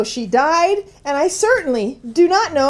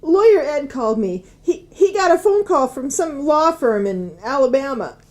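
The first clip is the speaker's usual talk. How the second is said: crying. Acted. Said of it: "I don't know why I'm crying".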